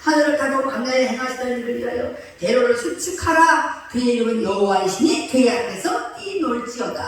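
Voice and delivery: loud, emphatic psalm reading; scripture reading. Acted. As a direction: proclaim the verse to the congregation. (설교자가 회중에게 시편을 힘차게 낭독)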